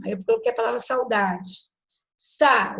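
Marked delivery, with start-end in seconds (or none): 2.2-2.8 Sa said louder and set apart; stress on Sa. Shown as a demonstration. Teacher shows class the stronger vowel in saudade, stressed. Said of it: "o A é mais forte".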